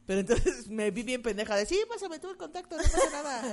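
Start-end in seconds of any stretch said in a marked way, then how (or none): 1.7-3.5 laughing. Retold or imitated. Mocks her own naive reply.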